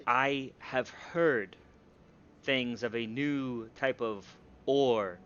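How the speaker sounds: lightly voiced stately king, slow; measured royal speech with weighty pauses; dwarf king. Game master voices the dwarf king.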